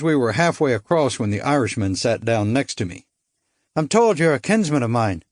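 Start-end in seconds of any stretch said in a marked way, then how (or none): 3.8-5.2 Irish lilt. Acted. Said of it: "I couldn't place his accent".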